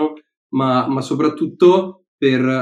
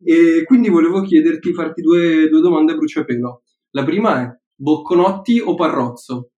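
quick-fire quiz host, louder and punchy; showy game show host; 3 semitones higher, 5 dB louder than usual. Pretend. Quiz a bruciapelo all'ospite. (conduttore di quiz televisivo)

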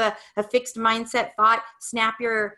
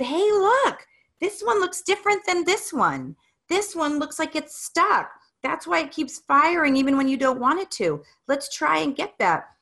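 put-on higher, eager show-and-tell to a child; encouraging discovery; 6 semitones higher than usual. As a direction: point it out like a happy find. Mother showing son the buttons.

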